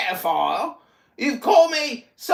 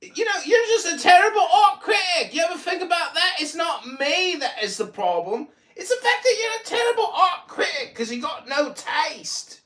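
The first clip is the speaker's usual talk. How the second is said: laughing, jeering insult; laughing taunt; 5 semitones higher than usual. Real, not acted. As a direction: jeer at him while laughing.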